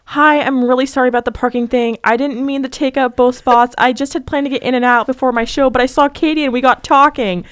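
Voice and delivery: lightly acted apology; apology read aloud. Reads out her apology text.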